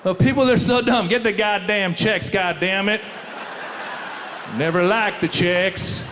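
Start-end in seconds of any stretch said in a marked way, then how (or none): 1.1-6.0 mock bigot rant. Mock bigot ranting at Czechs.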